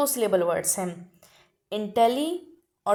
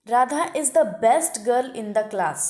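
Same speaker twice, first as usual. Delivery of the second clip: very slow, every word spaced out; slow dictation; 4 dB louder, much slower than usual. Shown as a demonstration. Teacher dictating the superlative example very slowly. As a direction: spell out the example sentence for the class. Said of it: "अब superlative degree की बारी।".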